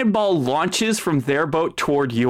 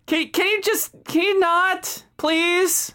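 rival captain; 6 semitones higher than usual. Acted.

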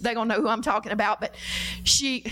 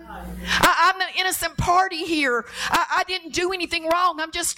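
near tears; 5 semitones higher than usual. Retold or imitated. Preacher's wife owning the hurt herself, near tears. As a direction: voice catching, close to crying. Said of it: "Anybody ever felt that way?".

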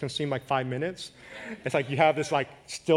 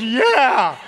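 laughing as the driver; 10 semitones higher, 8 dB louder, much slower than usual. Retold or imitated. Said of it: "He goes".

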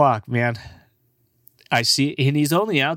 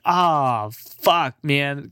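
mock disappointment; 4 semitones higher, much slower than usual. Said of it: "I'm over there like".

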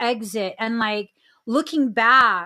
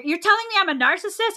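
offended husband; 8 semitones higher, much faster than usual. Retold or imitated.

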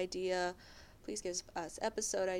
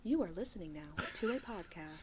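automated customer service voice; polite automated phone-menu read. Shown as a demonstration. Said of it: "automatic customer service voice".

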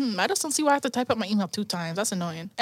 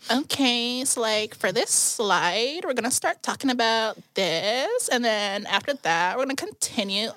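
slow drawn-out Valley Girl imitation; lightly mimicking a Valley Girl classmate; mock Valley Girl; 3 semitones lower, slower than usual. Classmate presenting, lightly mocked in Valley Girl voice. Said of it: "She's like".

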